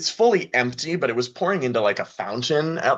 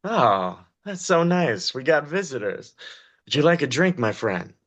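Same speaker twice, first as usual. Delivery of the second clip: smiling host; 3 semitones higher than usual. Acted. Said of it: "he smiles and he goes".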